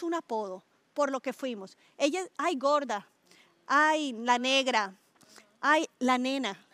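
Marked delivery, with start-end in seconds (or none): 2.4-6.7 drawn-out mock name-calling; slow, slightly louder teasing imitation; imitando apodos. Imita cómo llaman con apodos. (imitando apodos, alargando las palabras)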